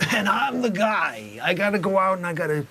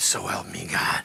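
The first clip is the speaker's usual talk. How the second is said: near whisper, much lower; 12 semitones lower, 3 dB quieter than usual. Coaching Dusty on his witness oath, showing how to end it in a near whisper. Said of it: "you got to almost come down to a whisper".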